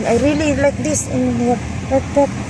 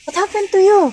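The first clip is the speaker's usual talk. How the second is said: higher, louder startled asking; retold alarmed cry of concern; imitating her own worried question, higher and louder; 8 semitones higher, 4 dB louder, faster than usual. Retelling an alarmed question to Wing.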